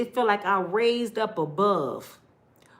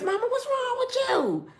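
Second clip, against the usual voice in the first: retold nervous kid.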